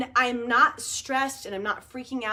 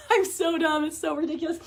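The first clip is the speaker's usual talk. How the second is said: teary laughing; 3 semitones higher than usual. Real, not acted. Laughing at herself with her viewers, real teary laughter. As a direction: laugh until it almost sounds like crying.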